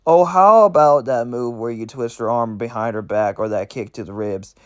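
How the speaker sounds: retried character voice, lightly put on; Blitz, voice corrected. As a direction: eagerly suggest moves like a kid in a candy store. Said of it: "I got it now".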